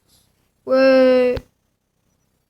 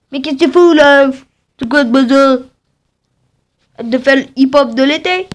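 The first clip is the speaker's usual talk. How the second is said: angry scolding; 4 dB louder than usual. Acted. Scolding a dancing character.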